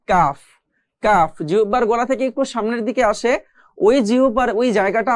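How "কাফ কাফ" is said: কাফ a little forward of কফ; demo letter. Shown as a demonstration. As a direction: say কাফ with tongue slightly forward. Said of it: "লাগিয়ে পড়তে হয়". (একটু সামনে থেকে কাফ)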